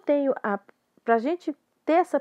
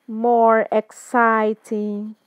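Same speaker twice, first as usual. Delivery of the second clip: slow, louder model of more exciting; slow teaching read; 5 dB louder, much slower than usual. Shown as a demonstration. Teacher modelling a phrase slowly, loud. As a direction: say it slowly for students to copy. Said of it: "Deixa eu consertar meu interesting aqui".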